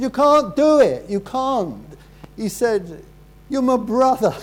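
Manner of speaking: high, loud pleading cry; imitating a desperate brother's outcry; angry protest. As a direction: shout it up high in disbelief. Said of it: "And he was angry".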